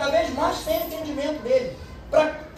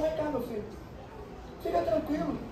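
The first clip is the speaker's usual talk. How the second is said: softer, soothing, speaking to a frightened guard; gently calm him down; Paul quietly reassuring the panicked jailer; 3 semitones lower, 3 dB quieter than usual. Acted.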